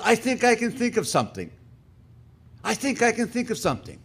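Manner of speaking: high-pitched, eager woman; hopeful. Acted. Woman recalling a good deed for the angel, high and eager. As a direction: pipe up with sudden hope.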